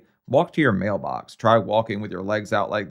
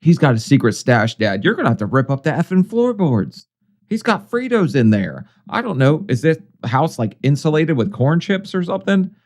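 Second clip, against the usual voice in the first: angry yelling; 5 semitones higher, 4 dB louder than usual. Acted. Scolding the patient on screen.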